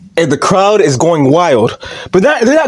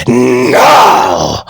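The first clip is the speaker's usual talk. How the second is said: low, drawn-out roared refusal; Vince McMahon; 6 semitones lower than usual. Acted. Boss refusing the begging champion, mock roar. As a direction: roar it from deep down. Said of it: "then Vince McMahon screams".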